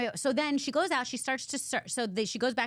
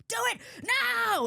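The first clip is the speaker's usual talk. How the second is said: commanding hero; slower than usual. Retold or imitated. Retelling the hero ordering his man, a high slow bark. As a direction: bark the order at your henchman.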